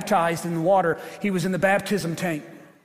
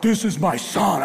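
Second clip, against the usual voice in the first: slow, lightly boomed voice of God; a hint of thunder from heaven, drawn out; God's thundering voice; 4 dB louder, slower than usual. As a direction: proclaim it slowly, like mild thunder. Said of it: "it was like thunder".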